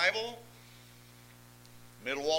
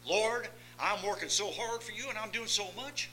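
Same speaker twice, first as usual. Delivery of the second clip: mock self-pitying plea; 6 semitones higher, 4 dB quieter than usual. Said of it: "I am in essence saying".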